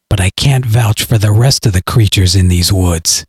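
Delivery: low, cold, measured voice; low cold hero. Acted. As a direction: deliver it like a cold killer. Hero calmly threatens the hillbilly.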